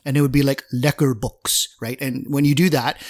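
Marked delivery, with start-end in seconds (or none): 0.7-1.8 slow, light mock Russian accent on "Lecker books"; a touch of Russian accent, drawn out. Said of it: "lacquer box is something that you could use for Russian".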